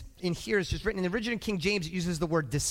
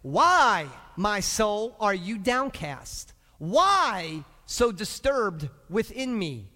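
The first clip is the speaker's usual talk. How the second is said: slow, drawn-out lament with long emphatic whys; stretched, pleading question; dramatic scripture reading; 4 dB louder, much slower than usual. Acted. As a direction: read it as an anguished, drawn-out plea. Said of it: "Verse five looks like".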